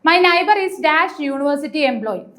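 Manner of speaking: reads each word out slowly; slow, careful question reading. Shown as a demonstration. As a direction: dictate the sentence slowly to the class. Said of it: "first question".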